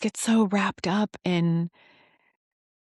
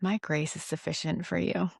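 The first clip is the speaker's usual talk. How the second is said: gentle reply; 5 dB quieter than usual. Retold or imitated. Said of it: "And gently he said".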